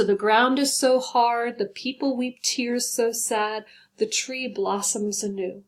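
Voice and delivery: slow, gentle poem reading; a teacher reading her poem to the class; reciting the haiku. Shown as a demonstration. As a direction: recite the whole haiku calmly. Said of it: "So there's my haiku".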